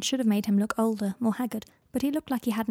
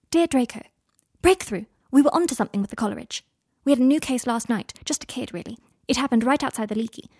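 hurried letter voice. Acted. Hermione rushes her findings to Draco, lightly voiced and excited. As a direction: read the letter in a hint of breathless Hermione.

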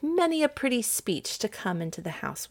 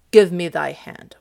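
loud, understated gladness; glad cry; 6 dB louder than usual. Acted. Orsino to Viola as he proposes, glad cry. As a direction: claim the hand gladly and firmly. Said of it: "Orsino cried in gladness".

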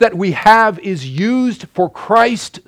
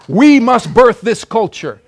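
higher and louder, slow and emphatic; louder repeat; 4 semitones higher, 4 dB louder, slower than usual. Real, not acted. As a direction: press it home harder. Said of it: "repeated louder".

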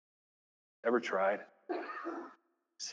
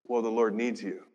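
soft voice of God; 7 semitones lower, 10 dB quieter than usual. Retold or imitated. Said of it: "what's the voice that comes back".

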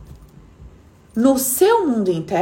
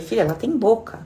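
retold advice. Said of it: "Eu falei".

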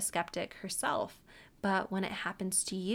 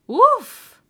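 much higher, louder hype bark; excited woof bark; 18 dB louder than usual. Real, not acted. Vlogger cheering Tom's defiance with a loud high woof.

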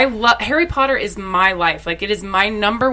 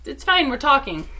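much higher and softer, casual wave-off; airy imitation of Summer; 10 semitones higher, 5 dB quieter than usual. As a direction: gently shoo the manager away. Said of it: "she's like".

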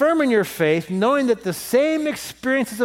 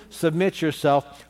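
slow emphatic; slower than usual. Shown as a demonstration. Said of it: "Notice the theme".

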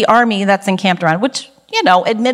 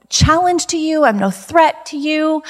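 higher, drawn-out plea; humble pleading; 6 semitones higher, slower than usual. Acted. Preacher voices David assuring Saul he is no threat, pleading. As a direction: plead harmlessness, slowing at the end.

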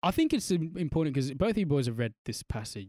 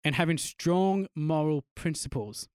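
laughing; 7 semitones higher, 4 dB louder than usual. Real, not acted. Reads dictionary definition, laughing.

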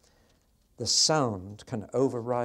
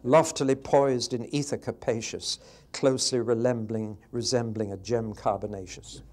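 grand, louder, mock-learned reading with a laugh; pompous scientific recital; 6 dB louder than usual. Shown as a demonstration. Teacher mocking a scientific rewrite of a poem, pompous and loud. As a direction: recite it like a stuffy scientist, hammed-up. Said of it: "It's gone scientific".

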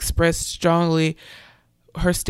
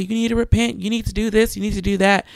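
higher, pushy preachy scolding; mock preachy lecture; 3 semitones higher, faster than usual. Imitating a preacher scolding an atheist coworker, mock preachy. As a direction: nag her like a street preacher. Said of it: "I wasn't rolling up on her talking about".

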